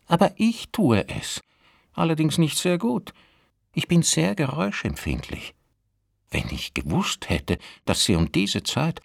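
put-on high, prim old woman; landlady voice. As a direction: complain like a fussy widow. Landlady complains about noise.

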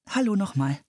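put-on friendly girl's soft "Hallo nochmal"; soft, lovely voice. A narrator's reading. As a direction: greet them sweetly and softly. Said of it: "mit einer schönen, sanften Stimme".

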